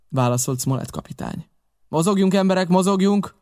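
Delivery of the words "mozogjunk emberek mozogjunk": high, raised urging call; urging the men. A narrator's reading. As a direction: spur the crew on with a repeated call. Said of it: "biztatta a legényeit". (magas hangú, sürgető biztatás)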